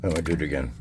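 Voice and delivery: talking around a paintbrush held in teeth; mumbled with a brush between the lips; brush in mouth. Real, not acted. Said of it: "Sorry, there's a brush in my mouth".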